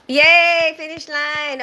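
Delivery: excited. Real, not acted. Cheering reaching end of comments.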